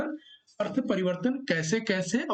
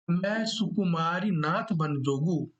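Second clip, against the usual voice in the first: verse recitation; slower than usual. Shown as a demonstration. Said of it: "Sita जी जो है ... कहती हैं".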